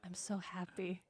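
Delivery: breathy whisper of delight; whispered joy. Real, not acted. Cohost delighted by orcs as football hooligans, hushed whisper. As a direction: whisper it like a private thrill. Delighted by orc punk image.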